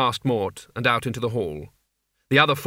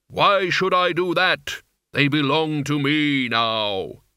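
Death's voice; 2 semitones higher, 3 dB louder, slower than usual. Acted. Death refuses Mort, slowly.

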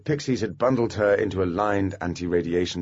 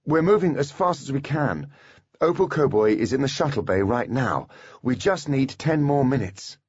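Holly voice; 7 semitones higher than usual. A narrator's reading. Holly pleads over the mic.

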